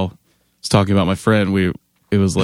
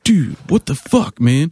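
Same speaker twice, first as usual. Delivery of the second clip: high-pitched imitation of an outraged fan; pissed off; 6 semitones higher than usual. Band member imitating the fan before he stormed off, pissed. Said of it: "was so pissed and stormed off".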